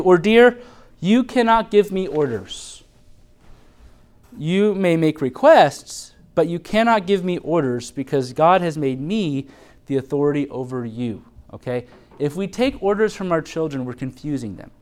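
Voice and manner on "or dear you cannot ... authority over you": gentle firm correction. Shown as a demonstration. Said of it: "number two".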